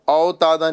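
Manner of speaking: اوتادا spoken with a flattened opening "ao" vowel; اوتادا as a faulty spoken example; mispronounced leen. Shown as a demonstration. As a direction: show اوتادا wrongly, first vowel as Urdu "au". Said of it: "نہیں پڑھنا ہے".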